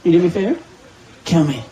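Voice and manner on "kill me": desperate pleading yell. Pretend. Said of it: "I'm in hell!".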